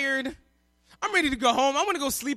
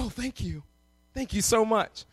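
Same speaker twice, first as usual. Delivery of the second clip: counter lady; 3 semitones lower than usual. Retold or imitated. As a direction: imitate a flattered agent, hushed. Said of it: "She's like".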